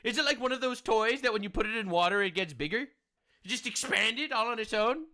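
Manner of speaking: feigned naive wondering; sarcastic. Acted. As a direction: ask as if honestly puzzled, tongue in cheek. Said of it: "I feel like I'm being too sarcastic".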